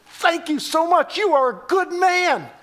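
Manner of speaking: high-pitched imitation of an overjoyed woman; excited gratitude. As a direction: gush thanks as the excited woman. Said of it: "She was so excited".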